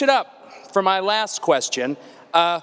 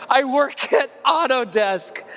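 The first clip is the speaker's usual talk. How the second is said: mocking imitation; 3 semitones higher than usual. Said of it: "I burned this dude".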